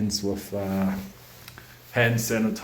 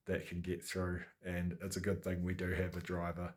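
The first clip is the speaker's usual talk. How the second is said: soft, low-key night voice; quiet night talk; 3 semitones lower, 8 dB quieter than usual. Real, not acted. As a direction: keep it hushed for the night. Night in the cold room.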